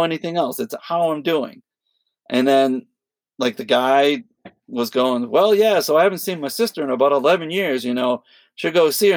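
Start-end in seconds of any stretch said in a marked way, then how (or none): 5.3-9.1 a hint of a guy who won't stop talking; imitating rambling stranger. Tom imitates the doorman telling him about his sister, rambling.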